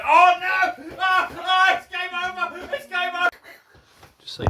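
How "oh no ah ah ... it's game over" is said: very high, loud cartoon duck squawk. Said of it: "that is a tolerable duck impression".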